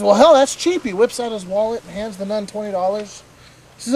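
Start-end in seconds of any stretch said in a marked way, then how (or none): 0.0-0.8 pleasantly surprised. Retold or imitated. Customer pleased at the price.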